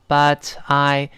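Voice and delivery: "but I" slowly, t kept crisp; careful unvoiced t. Shown as a demonstration. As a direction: separate "but I" with a clear t. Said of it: "注意连读加浊化".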